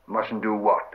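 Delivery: puzzled question at ordinary pitch; mild surprise. Acted. Sam questions the shrieking Gollum, mildly surprised. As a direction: ask back, mildly taken aback. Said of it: "asked Sam in surprise".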